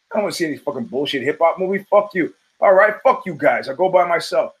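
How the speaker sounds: mildly exasperated brush-off; mock irritated. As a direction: act out a petty spat with friends. Acted spat with friends over movie.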